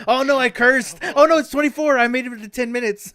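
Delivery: high, loud laughing panic. Real, not acted. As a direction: laugh through the words. Laughing after cursing on stream.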